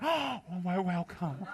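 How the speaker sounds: slow, breathy awed greeting; mock breathless welcome. Devotees in the street gush a welcome, slow and breathy. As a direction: gush like a flustered fan.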